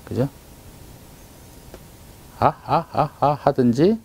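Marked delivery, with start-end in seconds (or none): 2.4-4.0 saying ahh. Shown as a demonstration. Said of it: "하고 소리를 낼 때".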